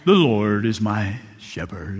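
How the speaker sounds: low, slow, theatrical actor's recitation; dramatic deep reading. Retold or imitated. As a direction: ham it up like a stage actor reading scripture. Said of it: "read in a very dramatic voice, modulating his voice, deep tone".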